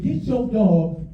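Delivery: imitation of an angry grandma telling off neighbors; firm, emphatic scolding, acted out; mad grandma. Grandma confronting the neighbors over the dog, mock angry. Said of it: "She mad as hell".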